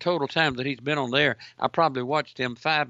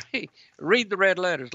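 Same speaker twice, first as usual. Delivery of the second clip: sarcastic retort pitched higher; mock sarcastic; 4 semitones higher than usual. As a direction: repeat the quote with mocking emphasis.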